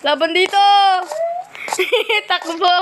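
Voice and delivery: excited shouting mid-chase; laughing while running. Real, not acted.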